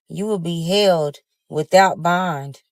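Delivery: slow, measured mock pronouncement; imitated judge's ruling. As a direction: hand down the ruling slowly, word by word.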